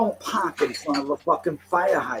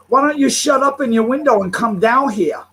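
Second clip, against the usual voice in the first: mocking retold taunt; 7 semitones higher, 4 dB louder than usual. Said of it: "she had the nerve to look up at me and say".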